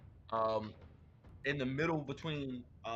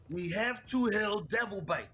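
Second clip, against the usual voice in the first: slow, raised in-character yell; 6 semitones higher, 5 dB louder, slower than usual. Acted. X yelling to the others as they rush back, urgent yell. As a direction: call it out loud and drawn out. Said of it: "X turns and yells".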